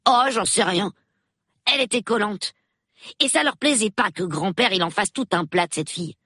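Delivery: put-on a nine-year-old thrilled to meet the police; excited little boy. A narrator's reading. Peter answers the superintendent. (petit garçon tout excité, voix plus aiguë)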